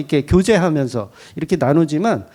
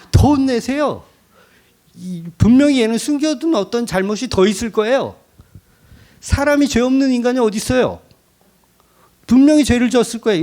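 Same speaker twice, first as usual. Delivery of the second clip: eager accuser; 5 semitones higher than usual. Retold or imitated. Job's friends urging God.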